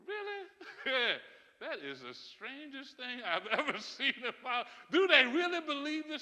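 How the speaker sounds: high, disbelieving really with laughs; can't believe what they say; incredulous. Real, not acted. Incredulous at the news.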